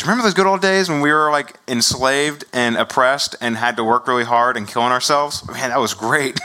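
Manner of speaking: fake-fond look back at slavery, ironic; mock wistful. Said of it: "wistfully, like the good old days".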